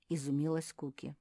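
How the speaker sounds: ordinary delivery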